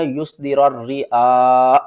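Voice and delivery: یسدر الرعا with the hamza made sakin; demonstrating the common mistake; wrong reading. Shown as a demonstration. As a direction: read الرعا slowly, stopping dead on the hamza. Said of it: "یہ سب سے بڑی غلطی ہے".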